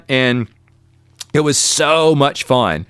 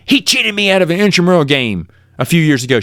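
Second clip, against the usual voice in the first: higher-pitched indignant protest, re-enacted; retold anger; 4 semitones higher than usual. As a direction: accuse him, acting out old outrage. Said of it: "I was so mad".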